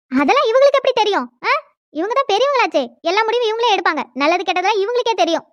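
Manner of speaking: indignant, pitch jumping up at first; sarcastic retort. Acted. Relative scoffing that these ones know everything, sarcastic. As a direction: needle them with mock deference.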